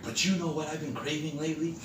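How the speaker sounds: mock-casual hint; sly coaxing. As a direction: lure him with a sweet suggestion. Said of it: "So I'm like".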